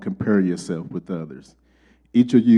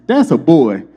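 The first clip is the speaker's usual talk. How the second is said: excited realization; 5 semitones higher, 9 dB louder than usual. Retold or imitated. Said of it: "I said".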